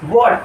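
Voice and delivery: what with lips rounded for the W. Shown as a demonstration. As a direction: round the mouth to begin what. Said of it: "मुंह का pronunciation गोल होना है".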